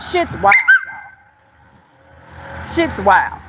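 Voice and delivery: stretched very slow and high; drawn-out disbelief. Real, not acted. Telling the viewers, slow and high in disbelief. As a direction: let it hang in amazement.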